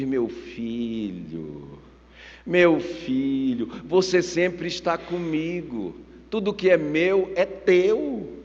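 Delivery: very slow, drawn-out gentle father; tender fatherly reassurance. Acted. Father answers his resentful older son, tender reassurance. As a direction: start low and soothe him slowly.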